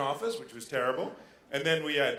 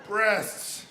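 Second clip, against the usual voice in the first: loud caveman roar; caveman outburst; 5 semitones higher, 4 dB louder, much slower than usual. Retold or imitated. Comic raging about stupid Americans with a loud roar. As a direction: bellow like a dumb caveman. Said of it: "it just makes me go".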